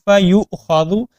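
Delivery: فَيُؤْخَذُ with a sharp glottal catch on the hamza; hamza jolt. Shown as a demonstration. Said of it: "جھٹکا لگا کے پڑھا جائے گا".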